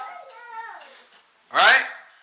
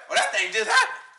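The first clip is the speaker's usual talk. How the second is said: amazed. Acted. Acting out answered prayer surprise.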